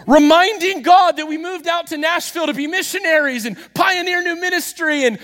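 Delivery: rising passion in the pulpit; impassioned preaching. Real, not acted. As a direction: pour it out with fervour.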